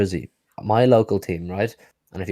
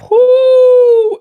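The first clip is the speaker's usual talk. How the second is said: high-pitched excited announcement; hyped-up whoop; 12 dB louder than usual. Pretend. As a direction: whoop long and high, then hype it up. Whooping as a big stat arrives.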